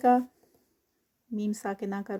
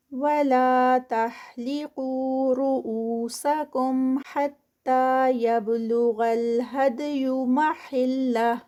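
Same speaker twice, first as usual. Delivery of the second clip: Quran recitation; 4 dB louder than usual. Shown as a demonstration. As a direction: recite it with careful elongation. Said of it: "لا پہ ٹو counts".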